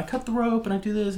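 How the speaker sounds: sailor. Retold or imitated. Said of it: "And they're like".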